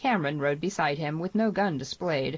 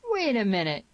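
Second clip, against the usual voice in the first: higher, raised protest yell; 5 semitones higher, 4 dB louder than usual. A narrator's reading. Tierney interrupts the sheriff's questioning, yelling. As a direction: cry out to halt things. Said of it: "yelled Tierney".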